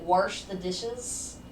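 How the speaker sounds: "Warsh" with an added R, slow; Midwest R added. Retold or imitated. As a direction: stretch out "Warsh" with an R inside. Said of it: "she would always say".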